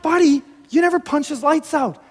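high, loud excited praise; hammed-up thrilled dad cheering a small win; pumped parent. Father congratulating his buddy of a son, pumped up. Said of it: "your parent to be pumped".

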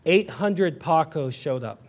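slow, low, dry delivery of the joke; deadpan punchline. Acted. Preacher telling the Paco joke, deadpan and slow. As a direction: let the punchline land quietly for a laugh. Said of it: "it's funny".

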